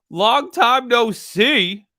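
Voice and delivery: slow, loud delighted greeting; drawn-out happy hello; excited greeting. Real, not acted. Greeting an old friend.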